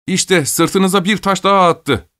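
high, slow, drawn-out call; children shouting. A narrator's reading. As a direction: call out like boys pointing out proof. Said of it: "diye bağırıştı çocuklar yeniden".

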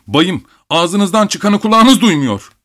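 high, drawn-out shrill rebuke; shrill shout. A narrator's reading. Abogin shouting at the insulting doctor, shrill. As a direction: cry out shrilly, slow and indignant. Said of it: "cırlak bir sesle".

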